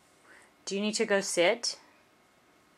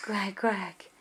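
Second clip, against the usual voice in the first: duck quack; 5 dB quieter than usual. Shown as a demonstration. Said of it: "What's the duck say?".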